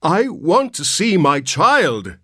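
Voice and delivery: high, loud, slow near-shriek; on the edge of collapse. A narrator's reading. Mister Button nearly shrieking at the nurse, desperate and high. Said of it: "Mister Button almost shrieked".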